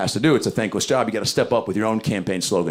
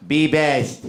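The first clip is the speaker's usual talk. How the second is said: put-on clipped, higher accented voice; Melania Trump impression; 4 semitones higher than usual. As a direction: say it stiffly like Melania. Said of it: "Melania Trump fired right back".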